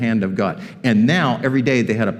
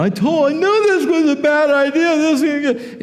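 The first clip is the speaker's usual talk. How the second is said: high, whiny griping; hammed-up grumble pitched way up; mock complaining; 14 semitones higher than usual. Children of Israel griping to Moses, mock whining. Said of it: "that's exactly what the children of Israel".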